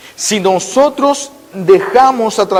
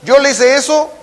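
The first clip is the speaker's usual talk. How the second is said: a higher, firmer nurse challenging him; 6 semitones higher than usual. Retold or imitated. Niece scolding the angry injured man, firm and raised. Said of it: "le dijo".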